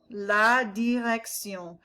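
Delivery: "direction" ending in a nasal sion, not shun; slow "La direction" with a French ending; no English shun in "direction". Shown as a demonstration. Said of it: "It's not shun, it's sillon".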